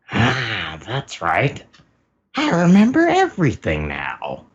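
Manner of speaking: hammed-up realization building to a high, loud finish; sudden recollection. Big Mom remembers everything out loud, hammed-up realization. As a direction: let the memory dawn, then burst out high.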